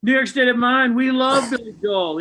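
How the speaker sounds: high, loud, gushing over a singer; gushing fan. Retold or imitated. Wife gushing about a singer to friends, high excited squeal. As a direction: gush like a starstruck fan.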